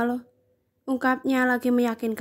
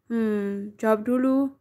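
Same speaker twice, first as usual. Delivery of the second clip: whining; slower than usual. A narrator's reading. Ciara pressing Atala for an answer, mild whine. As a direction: coax him to answer, half-sulking. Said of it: "rengek Ciara".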